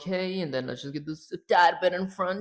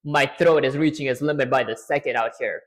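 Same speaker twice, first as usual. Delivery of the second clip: unwilling; 4 semitones lower than usual. Shown as a demonstration. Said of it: "add unwillingness to it and say".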